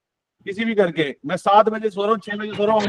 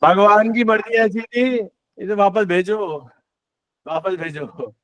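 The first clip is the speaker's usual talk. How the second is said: slow teasing mock decree, falling away; joking; slower than usual. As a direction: draw it out as a playful tease. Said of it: "मैं मजाक करता रहता हूँ". (मज़ाक में, धीरे-धीरे छेड़ते हुए)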